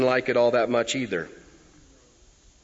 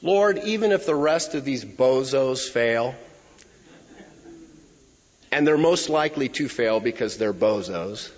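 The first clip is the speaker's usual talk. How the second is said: boastful paraphrase. Retold or imitated. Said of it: "a loose paraphrase".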